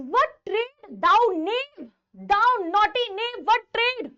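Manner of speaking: drawn-out, emphatic demand; acted scolding. Official demands the cobbler's trade, scolding. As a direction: scold slowly, as if at an insolent tradesman.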